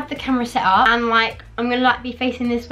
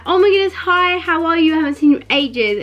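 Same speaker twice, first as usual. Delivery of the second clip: gushing relative; 5 semitones higher, 5 dB louder than usual. Retold or imitated. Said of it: "someone comes up to you like".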